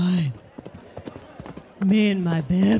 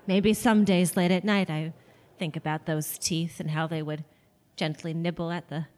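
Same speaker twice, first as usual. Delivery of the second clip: wistful and soft; 4 semitones lower, 4 dB quieter than usual. Acted. Wistful memory of husband.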